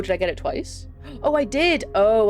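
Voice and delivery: ordinary talk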